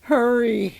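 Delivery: insistent one-word shout. A narrator's reading. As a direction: raise the voice to press them on. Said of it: "the head just kept shouting".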